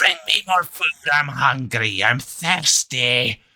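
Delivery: shrill, drawn-out, demanding put-on creature voice. Game master voices a fat figure sitting on a throne, shrill voice. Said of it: "shrill voice that's like".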